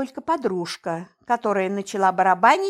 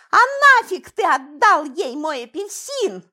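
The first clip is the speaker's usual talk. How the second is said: put-on nasal, mildly whiny child's complaint; nasal whine; 6 semitones higher, 5 dB louder than usual. A narrator's reading. Daughter whining at father, nasal complaint. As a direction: whine it through the nose like a spoiled girl. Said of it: "прогнусавила я".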